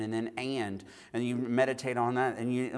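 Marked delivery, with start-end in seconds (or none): 0.4-0.8 "and" set apart as a word of its own; stress on AND. Shown as a demonstration. Preacher emphasizing each word in turn, stressed "and". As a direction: give "and" its own weight. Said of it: "thinking and emphasizing on".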